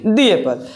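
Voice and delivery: "दी" said like "thee" before "Apple"; the apple. Shown as a demonstration. Teacher drills "the" as "thee" before apple. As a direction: stress "दी" before the vowel. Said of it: "उसमें हम क्या बोलेंगे".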